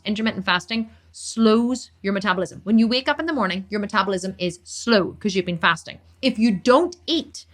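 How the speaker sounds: real rant building from firm to high-pitched and fired up; heated tirade, key words stretched out, rising to a high pitch; impassioned rant. Real, not acted. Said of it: "let me have a one-minute rant".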